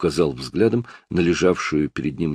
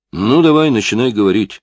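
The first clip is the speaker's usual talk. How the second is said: higher, louder barked command; barked order; 5 semitones higher, 6 dB louder than usual. A narrator's reading. Detective yells at suspect to start talking, loud. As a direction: shout him into talking. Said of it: "прикрикнул Стоун".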